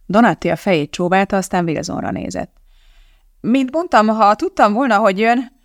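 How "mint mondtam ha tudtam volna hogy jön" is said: raised, slightly higher character voice; defensive man explaining himself; Donatti's voice. Acted. (Donatti hangja, emeltebb hangon)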